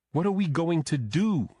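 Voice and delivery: high, loud, tearful wail; sobbing. A narrator's reading. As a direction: cry it out in despair.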